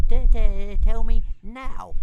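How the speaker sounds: high, slow stammering little dragon; stuttering dragon. Acted. Toothless stammering a demand at Hiccup, high and slow. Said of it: "said Toothless".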